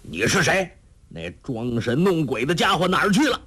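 narrator's acted, sharp challenge; stern shouted question. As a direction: demand an answer with mild force. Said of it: "喝问".

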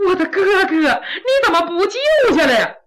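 half laughing, half crying reproach; tearful plea. Acted. Sister reproaches her brother for not saving him, tearful. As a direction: cry out at him through tears. Sister learns the hanged man's fate.

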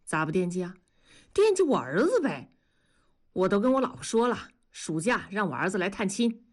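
carefree, lively reply; breezy, refreshed. Acted. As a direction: chat breezily about family. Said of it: "神清气爽地说". (神清气爽地说)

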